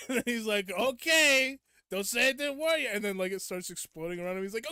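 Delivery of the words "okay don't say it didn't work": loud, high devil retort; comic devil. Retold or imitated. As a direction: imitate a silly demon giving a warning. Devil replies in retold meme.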